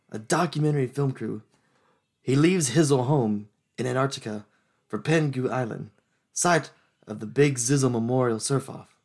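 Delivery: laid-back spaced-out rapper read, barely shifted; a hint of a rapper reading a movie blurb; rapper impression. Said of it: "sound spaced out and add an izzle".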